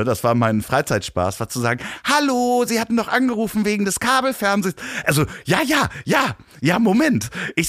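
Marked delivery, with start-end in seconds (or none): 2.0-4.7 high put-on prank caller voice, fast; sweet falsetto prank call; disguised voice. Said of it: "immer mit verstellter Stimme". 5.4-7.3 high put-on falsetto; chirpy fake phone voice; disguised voice. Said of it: "immer mit verstellter Stimme".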